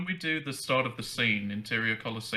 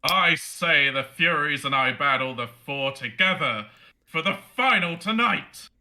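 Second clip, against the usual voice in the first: high-pitched barbarian voice; 3 dB louder than usual. Acted. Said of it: "your high-pitched Herc-, or barbarian voice".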